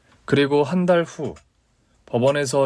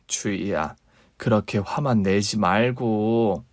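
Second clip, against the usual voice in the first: soothing mother; 3 semitones lower, slower than usual. Acted.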